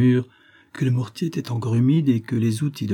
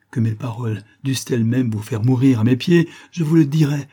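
urgent insistence; 5 semitones higher, 4 dB louder than usual. Acted.

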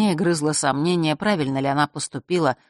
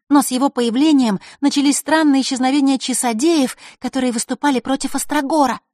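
put-on louder, higher girl's voice; 8 semitones higher, 4 dB louder than usual. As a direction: tell a friend dark gossip.

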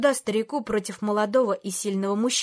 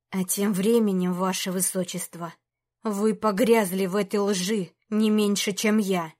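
through gritted teeth; 3 semitones lower than usual. Acted. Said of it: "сквозь зубы процедил Антей".

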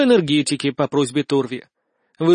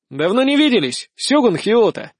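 called out loudly; 6 semitones higher than usual. A narrator's reading. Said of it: "громко сказал я".

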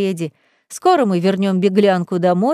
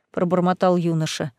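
plain reading voice

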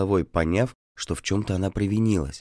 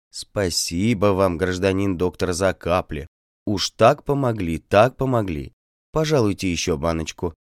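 fawning singsong. Acted. Peasant woman flatters the doctor, fawning and singsong. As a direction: lay the flattery on thick, singing it. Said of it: "запела льстиво".

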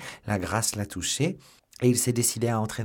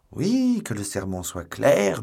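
much higher, louder yes; excited higher cry; eager agreement; 3 semitones higher, 6 dB louder, slower than usual. Acted. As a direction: jump in eagerly.

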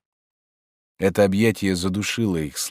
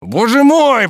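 much higher, louder anguished cry; near shout of pain; 10 dB louder, slower than usual. A narrator's reading. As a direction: cry out as if stung. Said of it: "почти закричал он, как от внезапной боли". (почти крик, как от внезапной боли)

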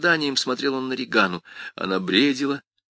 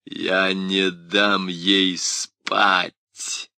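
menacing demon; much slower than usual. Acted. Demon threatens.

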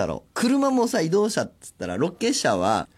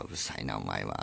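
low, soft drowsy grumble; sleepy mutter; 12 dB quieter than usual. Retold or imitated. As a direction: grumble half asleep at the chatterer. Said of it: "って言いながら".

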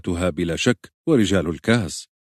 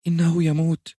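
frightened whisper; 11 semitones higher than usual. Acted. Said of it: "بخوف ... وهمست".

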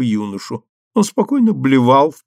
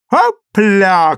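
high, louder whoop; playful shout; 8 semitones higher, 5 dB louder than usual. A narrator's reading. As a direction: whoop it out like a party cry. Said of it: "крикнула Фи-фи Уотерс". (задорный выкрик)

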